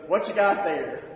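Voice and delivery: loud gruff call from inside. Retold or imitated. Man on the toilet calling to the teen at the door. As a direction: shout the question from across the house.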